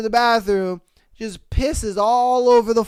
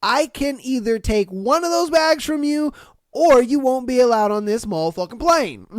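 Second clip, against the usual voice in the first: firm; 3 semitones higher, 3 dB louder than usual. Retold or imitated. Airline worker blocking the passenger at the stairs, firm. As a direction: lay down the ultimatum firmly.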